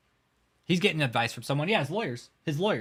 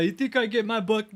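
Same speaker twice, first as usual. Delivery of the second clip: sensei impression; 9 semitones higher, 4 dB louder than usual. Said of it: "He's all".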